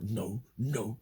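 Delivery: high childish protest, imitated; little kid refusing. Man reacting like a little kid, imitated childish refusal. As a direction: mimic a little kid saying no. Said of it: "he was like a little kid".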